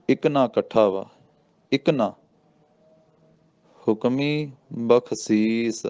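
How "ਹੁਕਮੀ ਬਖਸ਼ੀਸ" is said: slow chant, resting on ਬਖਸ਼ੀਸ; ਬਖਸ਼ੀਸ ਤੇ ਵਿਸਰਾਮ; pause after ਬਖਸ਼ੀਸ. Shown as a demonstration. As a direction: recite slowly, then stop. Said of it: "ਇੱਥੇ ਵਿਸਰਾਮ".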